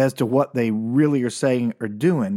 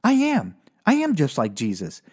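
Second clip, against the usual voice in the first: dawning realization; 4 semitones higher than usual. Retold or imitated. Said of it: "this and goes".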